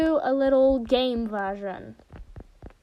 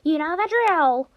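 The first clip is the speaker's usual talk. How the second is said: lightly put-on high announcer-like mascot voice; mascot impression; 5 semitones higher, 4 dB louder than usual. Gamer misremembering a game line, high put-on mascot voice. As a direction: recite it high, stretching the last word.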